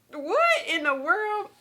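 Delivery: high, very slow amazed question; amazed and laughing; laughing disbelief. Retold or imitated. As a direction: stretch it out in happy shock.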